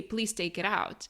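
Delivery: simple, direct ask in an even voice; straightforward request. Shown as a demonstration. Friend showing how to ask your man, straightforward request. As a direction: say it plainly, no hedging. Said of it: "Just say".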